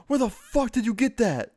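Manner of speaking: high, strained shout of alarm; panicked yell. Retold or imitated. AJ grabbing his little brother with the gun, panicked shouting.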